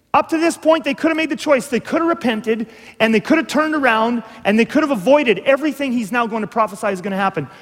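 earnest preacher building to a peak; rising urgency. Acted. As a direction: press the point harder each time. Third repetition, peak.

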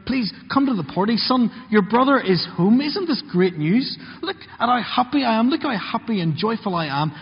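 a touch of a pleading dad; pleading father. Acted. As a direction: coax him warmly to come in. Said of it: "He begs with him".

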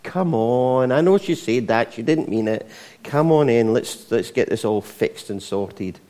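a hint of a parent coaxing gently; lightly voiced mum or dad talking someone round. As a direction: parent at a wedding coaxing a sulking relative back in. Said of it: "the dad or the mum who will go out and go".

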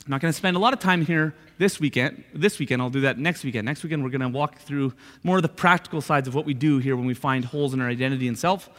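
ordinary delivery

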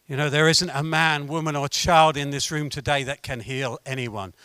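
low, subdued setup; low-key statement. Real, not acted. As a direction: state the human limit quietly, holding back. Negative statement set against its reversal.

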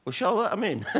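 laughing, high and loud; amused question. Retold or imitated. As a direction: ask it through laughter. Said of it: "he's like".

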